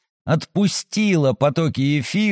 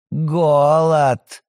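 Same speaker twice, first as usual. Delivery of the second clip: smirking. Acted. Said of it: "ухмыльнулась Софья".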